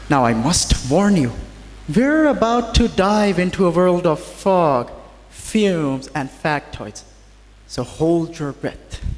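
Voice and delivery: formal speech to an audience; podium speech. Acted. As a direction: address the hall like a speaker. Formal address to faculty and students.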